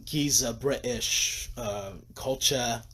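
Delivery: halting, slow stab at a British accent; clumsy British accent, drawn out; attempted British accent. Shown as a demonstration. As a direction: try a British accent and not quite manage it. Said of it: "I can't do the accent".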